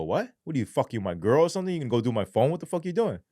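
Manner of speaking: mock-outraged questions, rising in pitch; retold indignant protest. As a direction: object in disbelief. Objecting to phone being searched.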